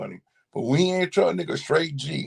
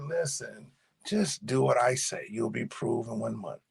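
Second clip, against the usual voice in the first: soft, lowered voice settling her protest; retold reassurance; 6 semitones lower, 8 dB quieter than usual. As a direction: quietly reassure a doubting mother. Son calms doubting mother, retold.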